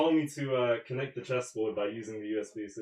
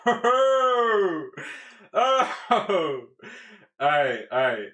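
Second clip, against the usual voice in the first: excited; 8 semitones higher, 10 dB louder, much slower than usual. Real, not acted. Pieces come together excitedly.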